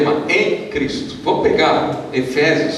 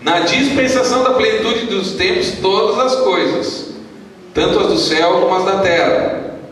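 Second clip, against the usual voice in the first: raised, ringing verse reading; scripture reading; 4 semitones higher than usual. Acted. Pastor leading the church through Efésios, projected declamation. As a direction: proclaim the verse with drawn-out cue phrases. Reads scripture aloud to congregation.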